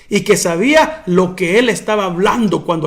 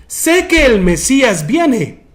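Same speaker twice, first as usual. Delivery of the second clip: stuck-up; 4 semitones higher, 4 dB louder, slower than usual. Retold or imitated. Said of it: "así como muy fufurufa".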